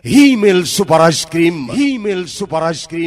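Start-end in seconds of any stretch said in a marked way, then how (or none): 0.1-1.6 louder brand name call; loud slogan. Shown as a demonstration. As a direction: punch out the slogan. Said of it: "নামটাই মনে রাখবেন".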